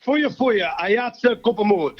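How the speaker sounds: careful, slow attempt at the phrase; first slow laughing try. Shown as a demonstration. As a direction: sound it out slowly with a laugh. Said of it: "Try it three times quickly".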